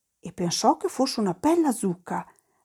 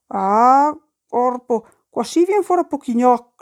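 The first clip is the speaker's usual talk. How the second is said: dismayed exclamation; 3 semitones higher, 6 dB louder than usual. Acted. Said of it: "la pensò la Pina".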